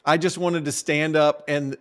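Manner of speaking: normal talking voice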